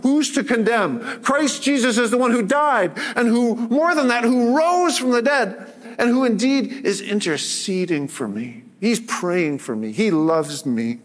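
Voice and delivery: rising, fervent recital of the verse; preached declaration. Shown as a demonstration. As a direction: declare the verse in first person with growing conviction. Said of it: "we can say".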